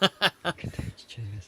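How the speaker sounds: light Australian greeting; mock Australian accent. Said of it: "hearing that Australian accent from you".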